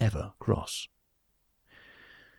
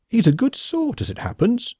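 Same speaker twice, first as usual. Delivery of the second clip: higher, defensive reply; mildly irritated defence; a little irked; 14 semitones higher than usual. A narrator's reading. Smith defending his alien friend to Khan, a little irked. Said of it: "a little irked".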